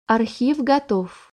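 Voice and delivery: slow, flat robotic reply; metallic robot voice. Acted. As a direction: speak like a machine, evenly. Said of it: "ответил Кай металлическим голосом".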